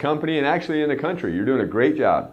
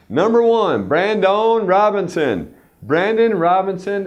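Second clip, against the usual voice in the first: hype announcer; 6 semitones higher, 4 dB louder, slower than usual. Acted. Hyping the top salesman.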